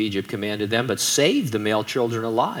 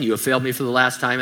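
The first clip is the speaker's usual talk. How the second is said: Darth Vader line; faster than usual. Retold or imitated. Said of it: "I was gonna do a Darth Vader accent".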